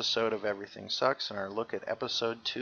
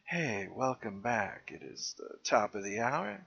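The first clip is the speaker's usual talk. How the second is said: seventies FM DJ; 3 semitones lower than usual. Retold or imitated. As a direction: ease into it like a late-night FM host. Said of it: "and it was like".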